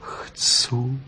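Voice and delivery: whispered humble yes; meek whispered answer. A narrator's reading. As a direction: whisper it meekly. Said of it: "odvětila pokorně".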